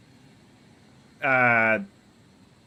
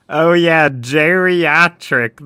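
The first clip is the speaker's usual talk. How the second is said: loud, drawn-out eureka; finally remember the word, triumphant; excited discovery; 3 semitones higher, 11 dB louder, much slower than usual. Real, not acted. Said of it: "That's the word".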